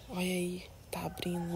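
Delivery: soft unvoiced whisper, not to disturb it. Real, not acted. Vlogger whispering over a flower opening, hushed whisper. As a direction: hush so the bloom isn't startled.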